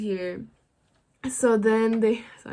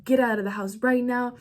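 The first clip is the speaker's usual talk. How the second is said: loud police bullhorn order, a bit higher; cops yelling over a megaphone; 4 semitones higher, 5 dB louder than usual. Retold or imitated. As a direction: bark it through a loudspeaker. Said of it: "they're yelling in their speaker".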